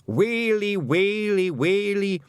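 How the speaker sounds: high, slow mock lament; wailing. The Feegle chief lamenting the Queen has come. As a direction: wail it like a hammed-up mourner. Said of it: "wails and groans".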